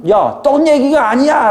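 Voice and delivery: high, drawn-out exclamation; acted exasperated outburst; exasperated correction. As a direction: cut in with an exasperated, high-pitched protest. Imagined exasperated correction by Jesus.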